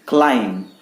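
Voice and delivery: "क्लाइंब" as klime, B dropped; silent B. Shown as a demonstration. Teacher answering what to say, silent B. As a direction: say "क्लाइंब" ending on M. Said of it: "ना कि क्लाइंब".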